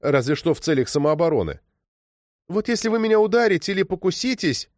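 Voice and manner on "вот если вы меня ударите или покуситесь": hopeful. A narrator's reading. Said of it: "с надеждой пробормотала девочка".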